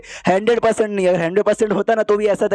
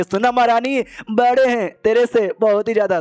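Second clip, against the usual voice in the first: higher-pitched teasing boast, no real laugh; mocking laughter; 4 semitones higher than usual. Demon girl taunting the queen about being bigger, mock gloating. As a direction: crow over a rival in a raised voice. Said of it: "जो जो से हंसती है कि".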